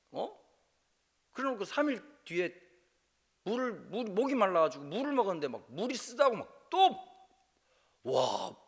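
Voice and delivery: ordinary talk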